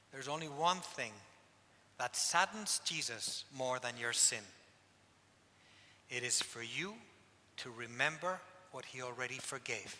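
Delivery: low, grave retold words of a priest; very serious. Priest answering a penitent who asks to hear his sins, very serious. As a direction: imitate the priest's solemn counsel, pitched low. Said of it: "he looks at me very serious".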